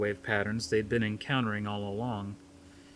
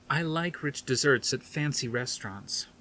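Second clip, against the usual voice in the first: snotty; 4 semitones higher than usual. Acted. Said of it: "a little too snottily".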